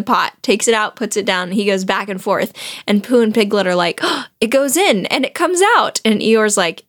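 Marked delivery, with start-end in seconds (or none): 4.0-6.0 higher, gasped wonder; playfully awed, pitched up; mock amazement. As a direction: imitate two friends marvelling at a trick. Pooh and Piglet amazed, retold.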